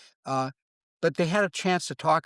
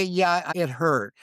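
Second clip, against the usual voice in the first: slow, drawn-out "Yeah, it hurt"; slow, calm honest admission; 3 semitones higher, much slower than usual. Retold or imitated. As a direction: let the admission sink in slowly. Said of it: "it's okay to say".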